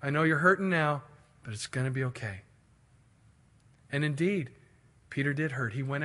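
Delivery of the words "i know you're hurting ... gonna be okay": tender and understated; loving, compassionate. Acted. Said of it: "one of love and compassion".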